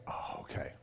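conspiratorial whisper, no voice. Retold or imitated. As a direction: breathe it to dad as a secret. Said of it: "She's like".

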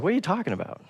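a quiet, baffled rebuke; hushed disbelief. Acted. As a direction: ask it softly, almost incredulous. Jesus voiced, baffled at disciples.

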